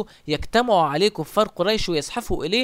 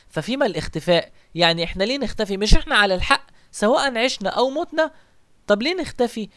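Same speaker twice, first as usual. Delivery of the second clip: impassioned plea; 4 semitones higher than usual. Acted. Umar pleading to the Prophet.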